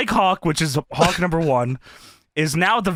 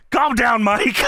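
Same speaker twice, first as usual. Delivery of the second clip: mock yell; 5 semitones higher, slower than usual. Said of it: "He yells".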